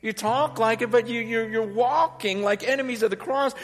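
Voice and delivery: high, impassioned cry of warning without tears; acted anguished plea. Preacher as Paul crying over enemies of the cross, anguished plea. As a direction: plead urgently as the grieving apostle. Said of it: "I'm crying at the same time".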